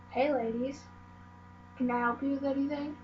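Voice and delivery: lightly voiced creepy old shopkeeper; a hint of a leering old man, quick. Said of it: "in his creepy old man voice".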